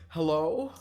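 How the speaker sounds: loud, high call. Acted. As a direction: call out into the forest. Calling out in the forest.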